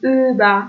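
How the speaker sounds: «اوبا» opening on German ü and ending in "ah", no r; final er as "a". Shown as a demonstration. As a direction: let the end of «اوبا» open to "ah". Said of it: "آ گفتیم". («اوبا» با آ به جای ار آخر)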